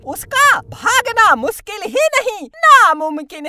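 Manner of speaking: evil witch voice with cackles, slow threats; comic village witch, menacing and amused; cackling witch. Acted. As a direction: gloat like a witch who has them trapped.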